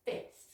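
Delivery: FIFTH said softly as "fith"; silent middle F. Shown as a demonstration. Teacher repeats the tricky word, silent middle F. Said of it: "that F sound is completely silent".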